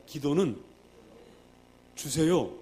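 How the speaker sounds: loud call-and-response line; proclaimed for the crowd to echo; call to repeat. Shown as a demonstration. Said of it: "따라하십니다".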